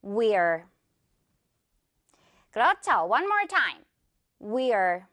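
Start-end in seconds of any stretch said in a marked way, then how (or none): 0.0-0.7 "We're" as one deliberate, falling syllable; low "We're", we sliding into r; model pronunciation. Shown as a demonstration. Teacher has learners repeat at once, modelling the contraction. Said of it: "바로 따라해 주세요". 4.4-5.0 "We're" as one deliberate, falling syllable; low "We're", we sliding into r; model pronunciation. Shown as a demonstration. Teacher has learners repeat at once, modelling the contraction. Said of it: "바로 따라해 주세요".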